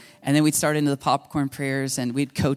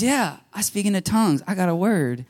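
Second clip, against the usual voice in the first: hint of a small child, slightly higher; three-year-old girl; 5 semitones higher than usual. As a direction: lightly imitate a little girl's matter-of-fact announcement. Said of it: "three years old, and she goes".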